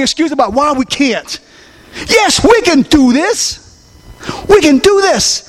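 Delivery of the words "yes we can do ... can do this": emphatic refrain. Acted. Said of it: "preacher repeats as call".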